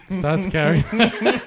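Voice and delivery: real giggle breaking into the telling; cracking up. Real, not acted. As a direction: barely hold in the laugh before a punchline. Cracking up before his punchline.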